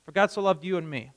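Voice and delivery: "you and me" given weight as the individual version; stress on you and me. Shown as a demonstration. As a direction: lean on "you and me" to show the self-focused reading. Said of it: "It's not a big difference".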